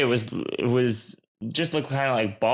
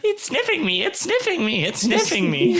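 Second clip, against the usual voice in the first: very high, frantic squeal; terrified little critter, pitched way up; panicked creature; 4 dB louder than usual. Acted. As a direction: repeat it in rising panic. Creature panics at sniffing tentacle.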